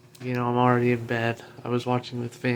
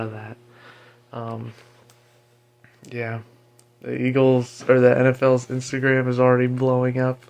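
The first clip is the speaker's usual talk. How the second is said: talking with a retainer in; mumbly words around a retainer. Real, not acted. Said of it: "I've got my retainer in, so I can't enunciate too well".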